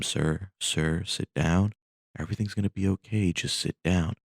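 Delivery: gentle acted plea to sit; soothing flight attendant. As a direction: talk a panicking passenger back into their seat. Attendant pleading with frightened passenger.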